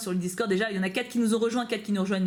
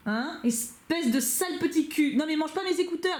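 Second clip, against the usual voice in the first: scolding the cat; 5 semitones higher than usual. Real, not acted. Scolding her cat Merlin.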